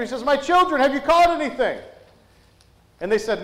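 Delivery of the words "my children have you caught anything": higher, mildly raised retold call. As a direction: call out as if to people across water, not a full yell. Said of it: "he yells out to his children".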